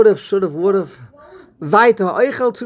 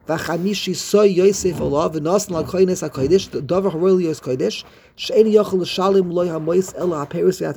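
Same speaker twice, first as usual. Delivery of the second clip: reading sacred text. Acted. Reads the Hebrew text aloud.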